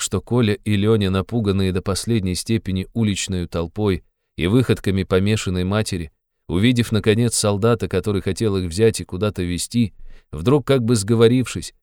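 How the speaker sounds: ordinary delivery, nothing marked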